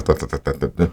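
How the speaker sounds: quick rush trailing into soft chatter; imitated fast, tumbling speech; rapid-fire talk. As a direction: rattle it off, fading into patter. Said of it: "a gente falava rapidinho".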